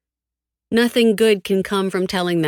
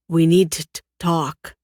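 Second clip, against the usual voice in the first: defeated; 3 dB louder than usual. A narrator's reading. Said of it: "his rough voice sounding almost as defeated as I feel".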